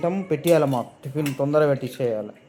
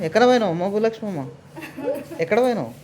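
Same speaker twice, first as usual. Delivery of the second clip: playful calling; 5 semitones higher than usual. Real, not acted. Calling the little girl playfully.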